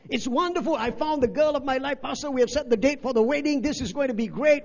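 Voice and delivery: mock excited groom. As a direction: bubble over with wedding plans.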